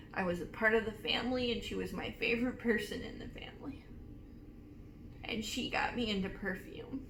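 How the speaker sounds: softly choked up, real; emotional. Real, not acted. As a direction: hold back tears remembering a beloved grandmother. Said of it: "getting all emotional on you guys".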